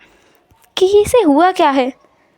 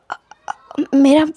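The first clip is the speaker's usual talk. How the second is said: hesitant stammer; 2 semitones higher, slower than usual. Acted. Hesitant about his scarred face.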